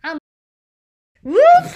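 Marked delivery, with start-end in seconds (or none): 1.2-1.7 high, loud laughing squeal; laughing whoop. Real, not acted. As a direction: burst out in a laughing yelp. Sudden burst mid-sentence.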